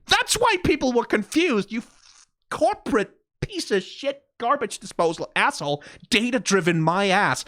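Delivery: furious yelling. Real, not acted. Creator yelling at Riot in a heated rant. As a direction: vent at the company in a tirade. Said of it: "was I just yelling into my room".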